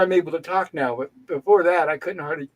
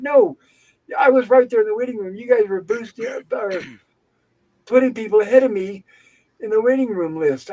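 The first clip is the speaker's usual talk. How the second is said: raised pitch, emphatic objection; indignant retort; 4 semitones higher than usual. Retold or imitated. Patient accusing staff of letting others go first, indignant. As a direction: cut in with a retold protest, higher throughout. Retold quarrel with the nurse.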